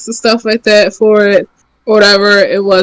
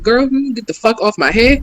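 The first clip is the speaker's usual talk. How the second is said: lightly imitated Black woman's telling-off; a hint of Black women's sassy talk; 2 semitones higher, 3 dB quieter than usual. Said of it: "that's really how black women talk".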